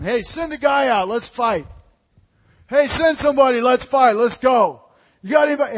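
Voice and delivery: a giant daring the army to send someone out; Goliath taunting. Retold or imitated. Preacher voices Goliath taunting the army, a building taunting yell. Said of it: "yells at him".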